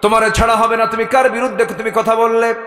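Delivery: high, loud preached scolding; angry outburst. A narrator's reading. Woman refusing to let Omar off, high angry outburst. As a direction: scold in a ringing, chanting voice. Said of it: "মহিলা খেপে গিয়ে বলছে".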